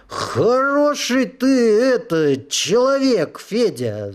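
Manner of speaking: put-on slow, high, slurring drunk; tongue tripping over the words; slurred drunk voice. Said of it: "заплетающимся языком говорила душа".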